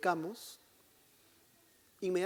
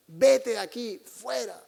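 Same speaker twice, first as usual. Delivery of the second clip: raised, higher mock scolding; mock yelling; 3 semitones higher, 8 dB louder, slower than usual. Priest mimicking himself yelling at a penitent, mock yell. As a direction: bark a mock order to get out. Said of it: "alguna vez le he gritado".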